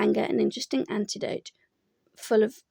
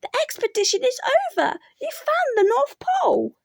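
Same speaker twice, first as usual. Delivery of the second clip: solemn announcement; 14 semitones higher, 4 dB louder than usual. A narrator's reading. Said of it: "said Christopher Robin solemnly".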